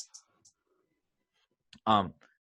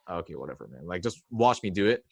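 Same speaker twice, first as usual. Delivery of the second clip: eye-rolling mentor; 4 semitones lower than usual. Retold or imitated. Mentor Alex brushing off the shy student, dismissive. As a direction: shrug it off like it's nothing.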